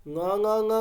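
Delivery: ঙ repeated on its own, made in the throat. Shown as a demonstration. Teacher shows the final step said from the throat. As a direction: keep saying ঙ from the throat. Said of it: "ওটা কিন্তু কণ্ঠ দিয়েই বলছেন".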